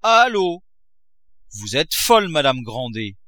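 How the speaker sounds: high, loud enraged cry; a miser shouting at his wife; outraged shout. A narrator's reading. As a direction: scream at his wife in fury. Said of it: "cria le bonhomme".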